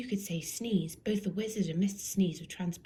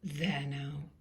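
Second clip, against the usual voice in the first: wizard voice; 5 semitones lower than usual. A narrator's reading.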